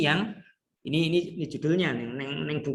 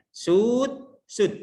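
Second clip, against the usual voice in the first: Sud said high and loud, then sud again; teacher sings out sud, sud; contrasting intonation; 8 semitones higher, 4 dB louder than usual. Shown as a demonstration. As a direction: give the two sud a clear melodic contrast. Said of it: "tapi intonasinya".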